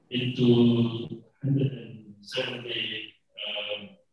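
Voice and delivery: muffled, as if through a hand; muffled audio. Real, not acted. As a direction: speak behind a hand over the mouth. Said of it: "your audio is muffled again".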